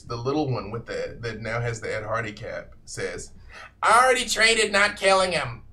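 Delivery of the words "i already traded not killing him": high, loud indignant blurt; loud protest. Acted. Little red cap objects to the trade, loudly indignant. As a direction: burst out in raised-pitch protest.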